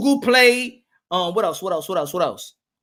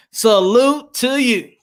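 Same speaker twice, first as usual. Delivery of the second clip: slow, stretched salute to a viewer; deliberate, lingering shout-out; drawn-out salute; slower than usual. Real, not acted. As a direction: draw each word out in tribute.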